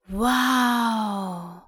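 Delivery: an awed, drawn-out wow; amazed wow. A narrator's reading. Spike gazes at the underwater palace, amazed. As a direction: marvel at the palace. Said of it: "staunte Spike".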